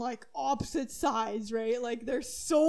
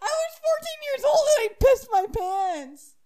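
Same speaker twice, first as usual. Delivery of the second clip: higher, louder laughing admission; embarrassed laugh; 12 semitones higher, 6 dB louder than usual. Real, not acted. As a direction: admit it through embarrassed laughter.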